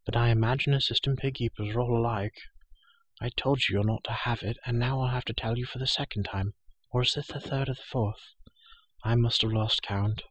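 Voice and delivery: a hint of a sleepy, scolding girl; Elenwe, irritated and sleepy. Sleepy girl scolds the pig keeper, mildly irritated.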